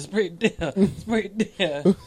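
high, slow mimicry through laughter; mock his words while cracking up; drawn-out teasing quote, laughing; laughing imitation.

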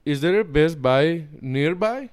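put-on hammy Indian accent request. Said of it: "in your best Indian accent".

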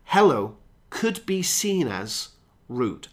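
hello could be seen as rude, said slowly; slow example sentence. Shown as a demonstration. Teacher slowly reading the example with hello. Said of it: "that's our phrase".

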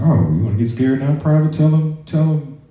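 high, mocking drill sergeant voice; drill sergeant taunt. Drill sergeant taunting a silent private in formation, high mocking bark. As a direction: sneer it like a sergeant baiting a recruit. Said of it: "He's like".

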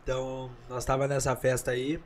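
chewing while talking; mouth full. Real, not acted. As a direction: talk round a mouthful of food. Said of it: "Pode falar com a boca cheia".

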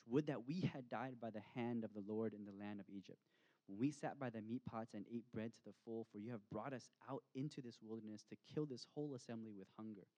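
a mild complaining edge on the quote; grumbling read aloud. Shown as a demonstration. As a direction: read it as a slightly bitter grumble. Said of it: "And so grumbling sounds like this".

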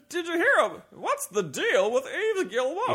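high, loud late-night comedian voice; Jay Leno voice. Acted. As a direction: ham it up like a talk-show host. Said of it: "I did a Jay Leno impres-, impersonation".

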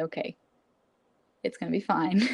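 understated, even self-soothing; self-reassurance. Retold or imitated. Student telling herself after a deep breath, calm reassurance. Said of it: "take a deep breath and say".

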